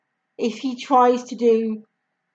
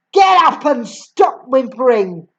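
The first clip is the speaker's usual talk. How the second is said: barked; 4 dB louder than usual. Acted. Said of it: "the Trunchbull barked".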